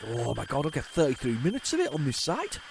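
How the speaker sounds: put-on a light slip into a Geordie accent; hint of Geordie on the quote; slightly Geordie excited quote. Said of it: "I went very Geordie there".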